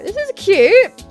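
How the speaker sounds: high, drawn-out gush at something cute; slow, high-pitched delight; delighted squeal. Real, not acted. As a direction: coo over it, high and stretched. Cooing over cute room.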